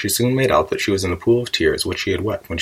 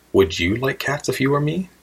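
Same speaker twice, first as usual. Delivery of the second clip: high indignant question, climbing at the end; shrill, passionate; 6 semitones higher than usual. A narrator's reading. Offended mouse challenges Alice, shrill and passionate. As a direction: challenge her in a high, rising voice. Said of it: "in a shrill, passionate voice".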